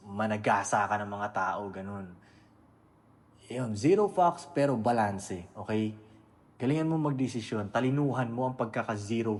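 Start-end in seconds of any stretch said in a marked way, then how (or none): 3.5-6.0 punchy restatement. Real, not acted. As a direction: punch the motto out, then rein it in. Restating the motto. (malakas na "zero fucks", tapos kalmadong "pero balanse")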